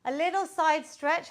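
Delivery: breathless after a sprint; talking while catching breath. Real, not acted. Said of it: "I'm so out of breath there".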